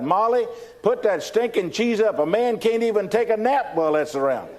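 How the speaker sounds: mildly hammed-up husband calling out. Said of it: "he called, called out".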